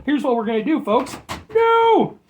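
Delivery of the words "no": high, loud, drawn-out exclamation; hammed-up shout. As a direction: belt it out high like a showman. Hammed-up exclamation revealing candies.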